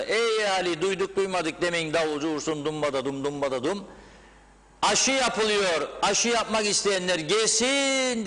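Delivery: high, loud crier calling the crowd; town crier. Pretend. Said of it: "diye bağırırsa".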